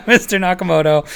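laughing through the name. Real, not acted. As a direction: chuckle as you call him. Calls name while laughing.

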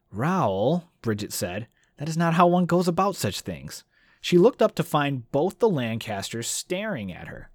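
reads the passage aloud as a storyteller; audiobook-style reading with voices for the characters; book reading. Acted. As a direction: read it like narrating a novel to listeners.

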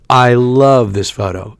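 slow gushing read of the text; mock-gushing loooove; drawn-out gushing. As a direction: stretch the love way out like a gushing mom. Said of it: "seventeen too many O's".

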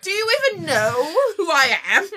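lightly posh affronted British lady; a hint of hammed-up British indignation; fancy British. Dinosaur insulted at being forgotten, lightly British and affronted. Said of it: "talk like a fancy British dinosaur".

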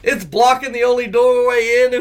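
high, laughing panic; retelling his own panic with a laugh; panicked. Retold or imitated. Trapped by a giant spider, high panicked laughing. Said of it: "I screamed like a little girl".

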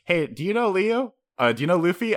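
light eager fan voice; mock eager fan. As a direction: pester them like an excited fan. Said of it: "Rebecca and Leo going like".

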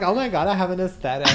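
fast, giggling self-quote; laughing. Retold or imitated. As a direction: laugh through the words.

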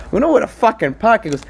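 high, loud broken English rant; his accent voice. Retold or imitated. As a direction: rant in the mechanic's voice. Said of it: "I'm doing his voice to myself".

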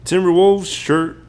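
hammy auctioneer calling bids. Pretend. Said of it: "me practicing my auctioneer voice".

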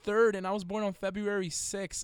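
high-pitched excited discovery; excited amazement. Real, not acted. Amazed by near-matching birthdays.

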